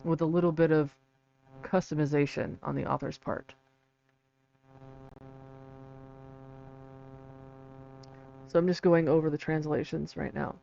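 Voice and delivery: creaky vocal fry on low notes. Real, not acted. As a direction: let the voice crackle into fry. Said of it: "I apologize for the vocal fry".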